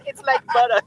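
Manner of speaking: lightly voiced coffee talk hostess parody; Mike Myers. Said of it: "Mike Myers".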